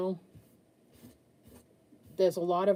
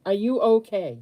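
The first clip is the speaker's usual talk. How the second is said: urgent worry; 4 semitones higher, 7 dB louder than usual. Retold or imitated. Repeating her urgent question.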